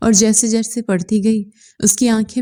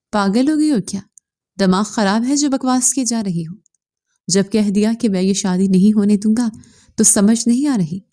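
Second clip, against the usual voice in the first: angry. Acted. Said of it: "गुस्से से कहा".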